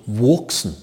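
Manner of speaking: "wurksen" said slowly with a dark, drawn-out first vowel; Saxon pronunciation of wurksen. Shown as a demonstration. Saxon comic presents a favourite dialect word, savouring wurksen. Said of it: "ein wunderschönes sächsisches Wort".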